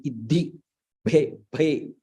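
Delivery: "iddhi, bhe, bhe" each sounded on its own; syllable by syllable. Shown as a demonstration. Teacher having students pronounce each syllable, separately. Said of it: "Pronounce it".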